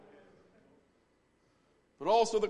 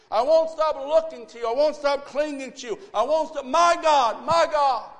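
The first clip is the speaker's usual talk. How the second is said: louder, higher, insistent declaration; fervent vow; 4 semitones higher, 7 dB louder than usual. Acted. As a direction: build it into a defiant vow. Jesus voiced, rising declaration.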